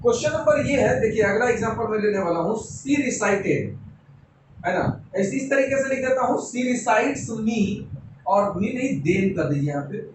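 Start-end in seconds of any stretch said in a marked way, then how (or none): 2.6-3.7 slow dictation. Shown as a demonstration. Teacher writing the example. 6.4-7.6 slow dictation. Shown as a demonstration. Teacher writing the example.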